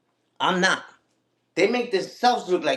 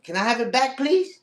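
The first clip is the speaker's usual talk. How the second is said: overly polite ask; 5 semitones higher than usual. Retold or imitated. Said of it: "So I just say".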